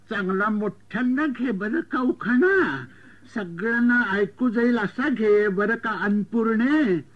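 put-on slow, coaxing elderly aunt voice; drawn-out sing-song nudging of the bride; old aunt's coaxing. Aunt urges the bride to say her couplet, slow and coaxing. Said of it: "आणि म्हणाली".

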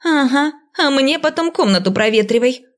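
complain, annoyed; indignant. A narrator's reading. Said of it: "возмутилась Динея".

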